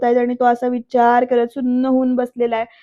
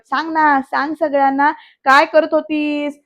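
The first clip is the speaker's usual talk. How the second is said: higher at the start, slowing on the last question; accusing demand; 3 semitones higher than usual. Retold or imitated. Varad turns on Vaidehi, accusing demand. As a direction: push for a confession, play-acted.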